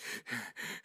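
soft acted puff of breath; catching breath. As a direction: puff as if winded from the stairs. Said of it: "trying to catch my breath".

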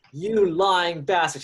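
slow, drawn-out angry accusation; pissed-off girlfriend. Acted. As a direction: play the woman confronting her cheating man. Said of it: "She's pissed".

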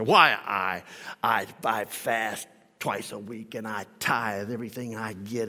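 mock the self-satisfied Pharisee praying; smug Pharisee. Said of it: "and the Pharisee says".

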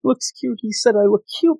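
high, giddy gushing; excited squeal. Retold or imitated. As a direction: squeal it like a smitten schoolgirl. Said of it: "and then she's all excited".

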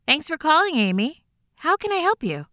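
high, quick customer service cheer; bright scripted call-centre greeting, a little rushed; chirpy over clear scripted. Acted. Hotline operator's scripted greeting.

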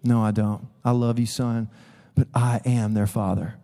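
low, measured fatherly voice; gently but firmly correct a son; the Lord reminding. Acted. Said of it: "feel the Lord reminding me".

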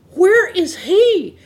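calling out. Retold or imitated. Searching the hen house for the missing rooster, calling out loud and slow. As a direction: call out slowly across the yard, searching.

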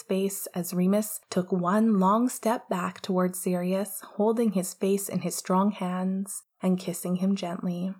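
whispered reading. A narrator's reading. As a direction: read it like a late-night whisper.

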